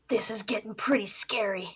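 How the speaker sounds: hushed whisper. Real, not acted. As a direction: breathe it under your breath. Aside while reading game.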